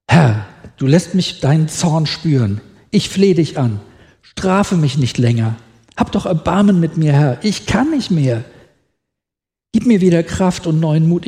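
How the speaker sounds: anguished psalm plea. Acted. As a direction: cry out to God like a desperate psalmist. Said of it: "Das klingt schon anders".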